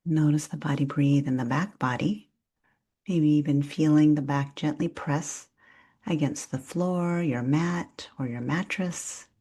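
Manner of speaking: calm, unhurried breath-awareness guidance; soothing yoga nidra instruction; guided meditation. Real, not acted. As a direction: guide them gently through noticing the breath, leaving long pauses.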